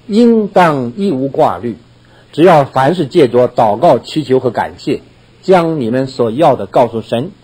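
slow, measured reading of a Bible verse; scripture recitation. Acted. Preacher reciting Philippians to the congregation, slow and measured. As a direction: lay each phrase out slowly like holy text.

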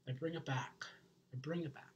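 bringing it down. Shown as a demonstration. Showing viewers how he brings himself down, softly. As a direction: drop the energy right down to show the calm. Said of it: "I usually bring myself down a little bit".

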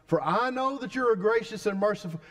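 a prophet sulking at God's mercy; preacher voicing Jonah's grudging prayer; whining Jonah.

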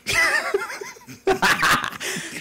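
put-on cackling old man laugh, very high; high wheezy old man laugh. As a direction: let out a squeaky old codger cackle. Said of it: "an old man voice that I quite like".

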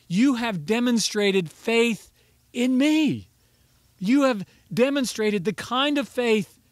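fervent sermon declaration; emphatic quote. Acted. Preacher voicing Jesus' words.

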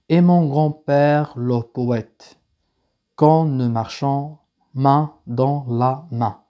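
very slow, phrase-by-phrase verse recitation; unhurried teacher reading poetry aloud; slow poem reading. Real, not acted. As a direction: recite it slowly, pausing after each phrase. Reads the poem aloud to students.

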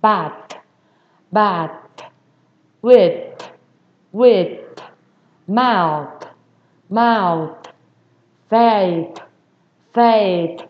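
final TH made with tongue between the teeth; tongue-bitten TH. Shown as a demonstration. Teacher modelling for beginners, bitten-tongue TH. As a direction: bite the tongue to end "Bath, with, mouth, faith". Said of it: "cắn cái lưỡi mình".

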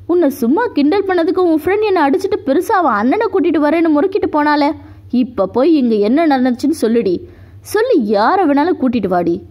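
a fast, cocky sneer, lightly voiced; arrogant taunt. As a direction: taunt her like a smug bully, rattling it off. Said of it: "திமிராக சொன்னவன்". (திமிரான கேலிப் பேச்சு)

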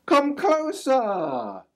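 slow sly fox coaxing; luring fox. A narrator's reading. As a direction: lure them in slowly. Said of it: "said the voice".

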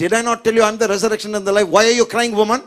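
quick, mildly scolding quote; mock rebuke. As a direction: rattle it off as a reproach. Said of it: "He didn't rebuke Martha and said". (mild rebuke, acted out)

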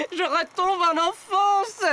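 high, slow, gushing delight; overjoyed. Acted. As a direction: swoon with childish joy. Delighted by the duck's voice.

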